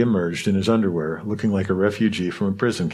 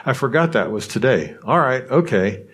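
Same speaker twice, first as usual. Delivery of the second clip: put-on animated teenager; 4 semitones higher than usual. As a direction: snap back to life like a kid remembering a big plan. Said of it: "transform back into an animated teenager".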